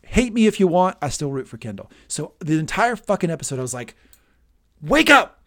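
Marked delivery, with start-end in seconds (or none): 4.8-5.4 loud frustrated shout of wake up; yelling at the TV. Retold or imitated. Fan yelling at Kendall on TV, loud shout. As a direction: shout it at the screen to rouse him.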